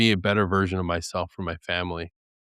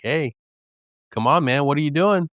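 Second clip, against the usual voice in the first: louder, higher mock priest scolding; 6 semitones higher, 5 dB louder than usual. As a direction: play the priest chiding him, half laughing. Priest voiced in retold confession.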